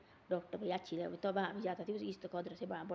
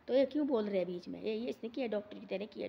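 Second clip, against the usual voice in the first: louder imitating an angry elder; angry retort; 2 semitones higher, 5 dB louder than usual. Elder retelling how he scolded the interrupting friend, angry and louder. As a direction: snap at the man for butting in. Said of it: "तो पूछो सैनम जुर्ग का गुस्सा".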